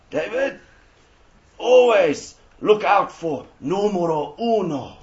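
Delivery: slow, hammed-up Italian accent; mock Italian accent. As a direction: imitate a coach with a put-on Italian accent, drawing out the words. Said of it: "He wasn't Italian or anything like that".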